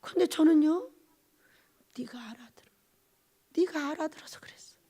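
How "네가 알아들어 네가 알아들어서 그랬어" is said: very soft, near-whispered grief; imitating a weeping father's hushed voice; tearful, choked-up voice. God tells the preacher why, choked tearful whisper. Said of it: "이런 목소리였어요".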